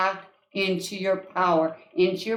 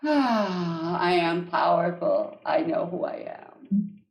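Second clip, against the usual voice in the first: calm mantra; 3 semitones lower, slower than usual. Shown as a demonstration. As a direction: breathe out, then settle into it. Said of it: "I'm breathing".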